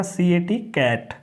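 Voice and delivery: कैट with the ए sounding as ऐ; teacher sounding out कैट; spelling then saying cat. Shown as a demonstration. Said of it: "ए की ध्वनि निकालेगा".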